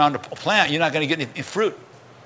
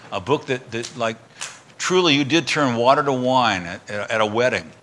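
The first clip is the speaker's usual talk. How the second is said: closing prayer; 2 semitones lower than usual. Real, not acted. Pastor leads closing prayer.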